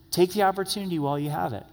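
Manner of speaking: quick, pressing "Take the opportunity while you have it"; urgent. Shown as a demonstration. Preacher urging listeners to seize the moment quickly. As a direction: drive it home quickly, no pause. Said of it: "Jesus emphasizes".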